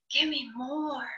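soft, hushed tempting murmur; whispering. A narrator's reading. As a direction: breathe it like a temptation. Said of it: "whispering to me".

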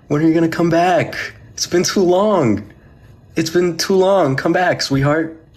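gushing, drawn-out, lilting plea; pleading sweet talk. Real, not acted. Host begs Lily, whom they miss, to come back, pleading. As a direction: coo it slowly, begging someone dear to return.

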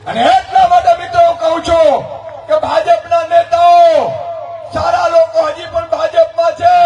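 rally speech. Acted. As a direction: rouse the crowd like a campaign orator.

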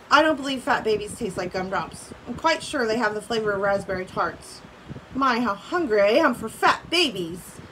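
reading a story aloud to the class; steady read-aloud for students; story narration. A narrator's reading. Teacher reading a storybook to her class, read-aloud voice.

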